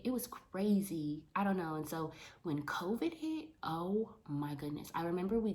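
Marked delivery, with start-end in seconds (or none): 0.1-1.2 whispered, slow. Real, not acted. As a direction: breathe it out as a secret. Whispered aside about crying.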